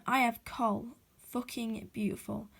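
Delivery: "fucking beautiful" slow, each word separate; each word emphasised. Shown as a demonstration. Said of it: "emphasise each word separately".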